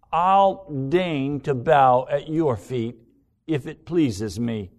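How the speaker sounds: haughty self-love. Acted. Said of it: "Self-love says".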